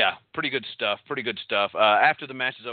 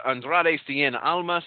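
name said with a Mexican accent; 4 semitones higher, slower than usual. Shown as a demonstration. Wrestling host relishing a fun-to-say name, in a Mexican accent. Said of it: "putting on a Mexican accent".

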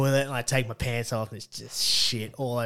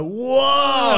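high, loud mock-stunned cry; hammed-up shocked exclamation; retold shock; 13 semitones higher, 7 dB louder than usual. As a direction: recoil in comic astonishment. Retells reaction to the vomit.

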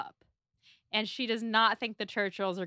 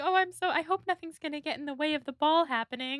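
gushing Jane; 6 semitones higher than usual. Retold or imitated. Jane imitated gushing about ball.

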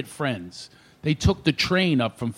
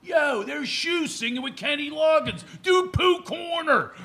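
higher, slow, shouted request; drunk friend waking up; 13 semitones higher, slower than usual. Retold or imitated. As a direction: yell out a song request. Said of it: "wakes up and goes".

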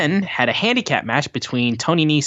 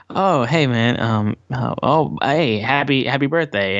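mildly awkward, halting greeting; 2 semitones higher than usual. Retold or imitated. Wrestlers bumping into their old partner, mildly awkward. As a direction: imitate stumbling small talk with an ex. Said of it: "like, awkward".

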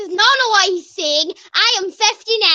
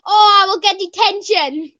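put-on yelling kid. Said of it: "yell, like, just uncontrollable things".

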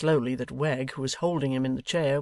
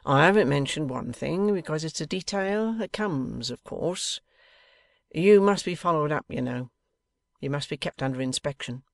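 lightly voiced bossy schemer; a hint of a domineering rogue; overbearing Wegg; 2 semitones higher, 3 dB louder than usual. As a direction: lay down terms with punched openings.

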